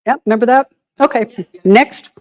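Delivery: talking while chewing gum; words round a wad of gum. Real, not acted. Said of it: "I'm sorry, I'm chewing gum".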